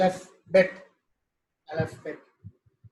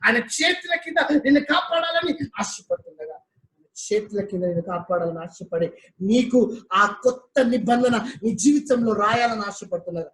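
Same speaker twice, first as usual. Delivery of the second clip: raised, driving preacher's voice; fiery preaching. Acted. Preacher stirring the church, raised and driving. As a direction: preach it hard against sin.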